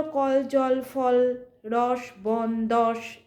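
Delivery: "কল, জল, ফল, রস, বন, দশ" each in one separate beat; এক ঝটকায় উচ্চারণ. Shown as a demonstration. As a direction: give each of "কল, জল, ফল, রস, বন, দশ" a single push on a level tune. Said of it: "রুদ্ধ দলের উচ্চারণ এক ঝটকায় হয়". ("কল, জল, ফল, রস, বন, দশ" প্রতিটি এক ঝোঁকে আলাদা করে)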